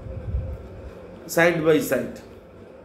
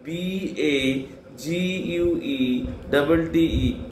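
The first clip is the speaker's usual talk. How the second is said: slow spelling; slower than usual. Shown as a demonstration. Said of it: "that is baguette".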